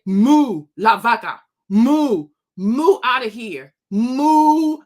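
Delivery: loud, slow taunting moos; loud mocking moo. Vlogger taunting a rude commenter with loud slow moos.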